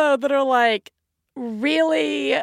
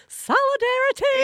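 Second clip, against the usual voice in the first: mock solemn. Mock solemn aside to singing mom.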